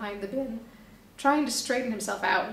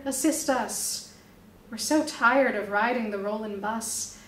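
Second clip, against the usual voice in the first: street poem recital. Acted. Busker reciting his poem to onlookers, declaiming. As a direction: perform it for the crowd like a street poet. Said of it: "recite his slick street poem".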